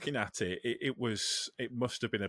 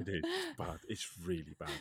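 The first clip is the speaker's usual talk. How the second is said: whispering; 6 semitones lower, 10 dB quieter than usual. Real, not acted. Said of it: "if it's whispering".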